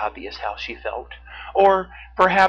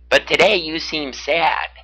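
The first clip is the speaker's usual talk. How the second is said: raised, loud beaver voice with a touch of solemnity; 5 semitones higher, 8 dB louder than usual. A narrator's reading. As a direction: voice a concerned beaver, mildly solemn. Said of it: "Baxter the beaver said solemnly".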